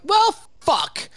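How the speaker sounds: high-pitched, loud exasperation; annoying high voice. Retold or imitated. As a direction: squeal it in exasperated self-mockery. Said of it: "I just have an annoying voice".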